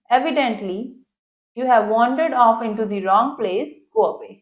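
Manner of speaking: slow, careful English reading; textbook read-aloud. Acted. Teacher reads the English passage to students, slow read-aloud. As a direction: read it out deliberately for a class.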